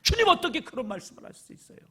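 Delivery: high, loud reproachful outcry; talking back. Acted. Peter talks back reproachfully to Jesus, high and loud. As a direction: scold him as if hurt and offended. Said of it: "막 대들면서 꾸짖었다는".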